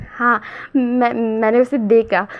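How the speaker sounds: slow, bashful confession; lightly voiced shy friend owning up; shy admission. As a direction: admit it sheepishly, head down. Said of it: "उंगलियों से खेलते हुए और सर झुकाते हुए".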